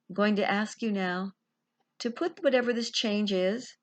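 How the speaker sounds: calm guided meditation, long pauses; guided visualization. Acted. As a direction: gently lead them inward, pausing between phrases.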